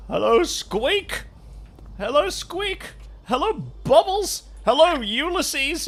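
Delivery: high, slow sing-song hello; cutesy greeting. Pretend. Streamer greeting washable objects in a high, slow cutesy voice. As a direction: coo each name like greeting a pet. Greeting game items by pet names.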